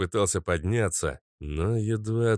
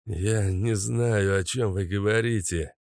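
babbling. Acted. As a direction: stammer it out, bracing for a blow. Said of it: "наконец смог пролепетать Каша".

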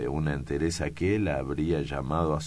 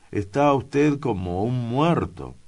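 alarmed; 8 semitones higher, 6 dB louder than usual. Acted. Official startled by clerk's state.

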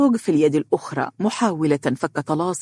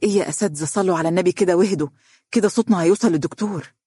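rapid, flustered plea; agitated; 3 semitones higher, much faster than usual. Acted. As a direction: hurry to break up the quarrel. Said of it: "وهي تقول منفعلة". (بانفعال وتوتر)

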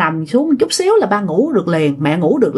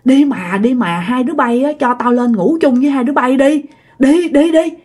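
pleading; 3 semitones higher than usual. Retold or imitated. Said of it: "Cái ổng cứ năn nỉ".

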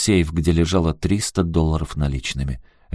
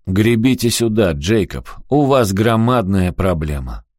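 mocking voice; 3 semitones higher, 3 dB louder than usual. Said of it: "раздался насмешливый голос".

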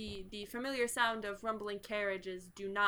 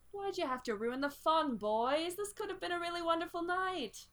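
a hint of a sighing, let-down villain; mildly theatrical regret, in character; lightly voiced disappointed butler; 4 semitones higher than usual. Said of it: "The butler sighs".

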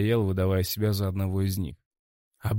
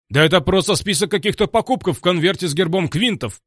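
louder, much higher furious bark; barking yell; 9 semitones higher, 9 dB louder than usual. A narrator's reading. Director bellows at the hero over the envelope, furious. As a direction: bellow it at him in rage. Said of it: "рявкнул директор".

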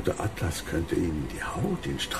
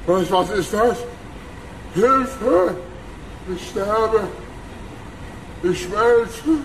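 hoch und laut kreischend; schrei, während du zerfließt; panische Todesschreie; 11 semitones higher, much slower than usual. Acted. Krug schmilzt und schreit. (schmelzender Bösewicht kreischt in Panik)

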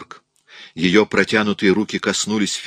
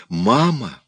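put-on higher small child's voice; child's call; 5 semitones higher than usual. A narrator's reading. Materialised child calls to her mother, childlike. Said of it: "нежный детский голосок".

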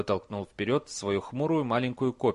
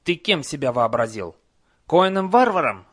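troll voice; 5 semitones higher, 7 dB louder than usual. Acted. Troll demands.

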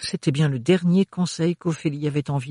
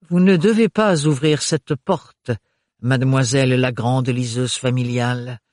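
honeyed voice; 4 dB louder than usual. Acted. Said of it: "roucoula-t-il d'une voix mielleuse".

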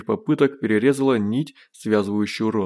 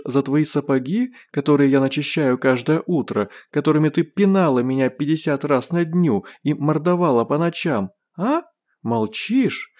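venomous taunting; 5 semitones higher than usual. Acted. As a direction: sneer and spit every word at her. Doll taunting the beaten sergeant.

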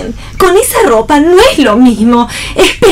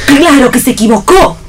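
laughing retort; 3 dB louder than usual. Acted. Mocking reply to the blunder.

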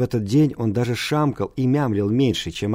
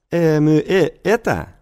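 put-on higher-pitched old teacher, hemming; mumbling old teacher; 5 semitones higher, 3 dB louder, slower than usual. A narrator's reading. Old teacher asks the pupil about his bald head, mumbling. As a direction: hem and haw before the question. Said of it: "при этом мямлил и каждую фразу разбавлял".

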